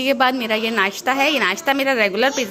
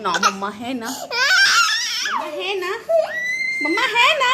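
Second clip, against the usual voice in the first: laughing play; 12 semitones higher than usual. Real, not acted. Playful call with child, laughing.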